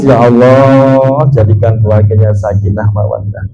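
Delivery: lightly acted tearful supplication; imitated tearful prayer. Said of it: "Kok nangis".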